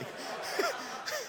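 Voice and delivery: quick airy chuckle; soft breathy laugh. Real, not acted. Laughing at himself over playing dumb with God, soft laugh. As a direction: let a soft laugh slip out.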